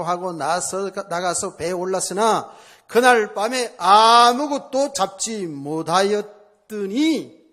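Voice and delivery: preacher reading scripture aloud. Real, not acted. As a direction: read out the Bible verse in a solemn recitation. Reads the scripture passage aloud. (설교자의 성경 봉독)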